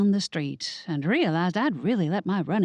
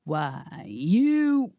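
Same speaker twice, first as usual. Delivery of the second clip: enraged sputter; 2 semitones lower than usual. Acted. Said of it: "Becky Ray's face twisted in rage".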